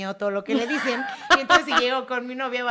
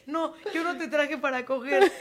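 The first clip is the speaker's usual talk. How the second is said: laughing mock quote; 3 semitones higher, 4 dB quieter, slower than usual.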